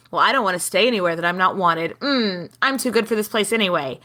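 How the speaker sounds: retold proud dismissal, a bit fast; brushing it off with mild pride; haughty act. Friend retelling a snubbed woman's haughty act. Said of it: "she's been acting like".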